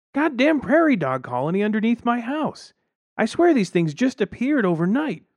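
high, loud exasperated outburst; angry rant. A narrator's reading. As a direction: rant at the neighbor about the pests. Outraged neighbor rants about pests.

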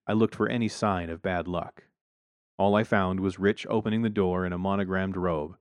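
ordinary delivery, nothing marked

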